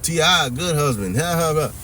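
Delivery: sarcastic cackling praise; mock laughing commenter. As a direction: imitate gossiping women laughing along. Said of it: "laughing out loud".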